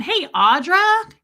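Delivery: high snake voice. Retold or imitated. Snake voiced calling her name.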